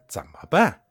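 a plotting uncle urging his nephew to strike first, fierce and loud; vicious. Acted. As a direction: spit out the plot like a ruthless schemer. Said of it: "公子辉恶狠狠地说".

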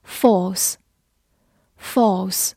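very slow, careful word read; slow classroom review word. Shown as a demonstration. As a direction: draw the word out for learners.

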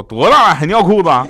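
loud, high mock-father scolding; angry scolding. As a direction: tell off the kid right after a slap. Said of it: "上来啪一个大嘴巴子". (模仿爸爸大声训斥)

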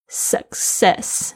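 success with a held, unreleased K then an S; careful pronunciation. Shown as a demonstration. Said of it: "两个C的发音都不一样". (清楚示范success，K不爆破)

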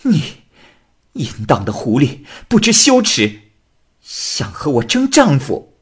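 shrill furious scolding, high and loud; angry cursing. Acted. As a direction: spit the insults at the fox. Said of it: "儿媳妇儿就骂道".

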